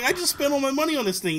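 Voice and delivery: high-pitched mock protest; hammed-up dismayed kid; retold devastation. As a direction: imitate a crushed kid pleading his case. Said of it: "I'm devastated".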